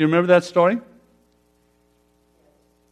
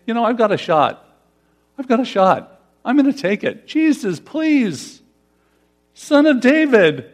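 pleading cry; 5 semitones higher than usual. Retold or imitated. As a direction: call out to Jesus with growing desperation, pitched up. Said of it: "they're just yelling out saying".

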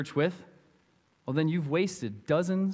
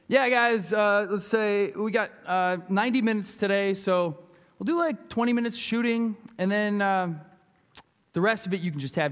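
hesitant, higher, mock-casual coach; laid-back coach; 3 semitones higher than usual. Coach telling players the practice plan, mock laid-back. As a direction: stall along like an unprepared coach.

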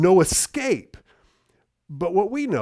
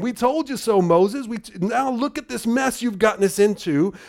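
taunting; 6 semitones higher than usual. Retold or imitated. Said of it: "they couldn't resist saying".

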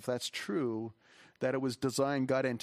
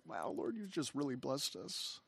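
soft, slow murmur of thanks; retold hushed awe; 6 dB quieter than usual. Pastor alone with the Lord, softly amazed at blessing. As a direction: recall a quiet, amazed prayer.

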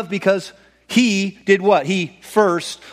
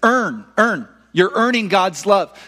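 demanding voice of religion; 4 semitones higher, slower than usual. Retold or imitated. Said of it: "religion says".

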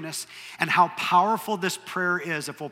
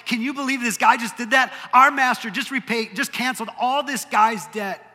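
higher, louder incredulous gossip; outraged, can't believe it; outraged disbelief; 6 semitones higher, 5 dB louder than usual. Retold or imitated. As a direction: servants telling on him, in outrage. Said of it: "they were outraged".

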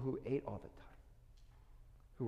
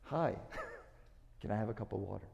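delighted; 3 semitones higher than usual. Retold or imitated. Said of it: "I was like".

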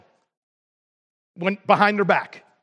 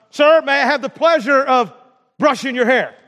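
a bit louder, repeating politely; polite request, slightly raised; 4 dB louder than usual. Retold or imitated. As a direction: repeat it up a notch for someone hard of hearing. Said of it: "you're gonna talk louder than that".

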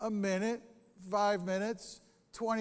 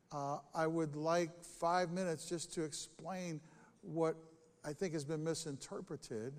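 calm, dignified; 4 dB quieter than usual. Shown as a demonstration. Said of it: "done nicely with a sense of dignity".

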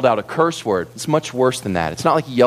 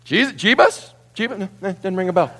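mock feigned ignorance; 6 semitones higher than usual. Peter mockingly denies knowing Jesus.

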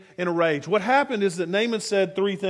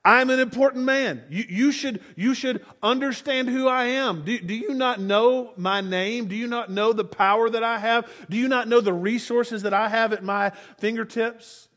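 indignant rant. Retold or imitated. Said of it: "he is flipping out".

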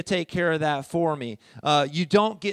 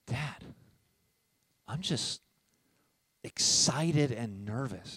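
excited, nervous daughter; 3 semitones lower, 5 dB quieter, slower than usual. Retold or imitated. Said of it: "one of them looks at me and she goes".

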